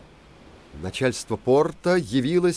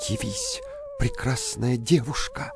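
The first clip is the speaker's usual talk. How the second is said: called out spell. A narrator's reading. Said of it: "взял стеклянный башмачок и шепнул".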